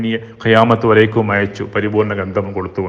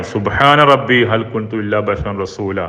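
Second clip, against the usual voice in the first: slow measured Arabic recitation; Quran recitation; slower than usual. Acted. Preacher intoning the prayer to the congregation, slow recitation. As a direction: intone the verse slowly.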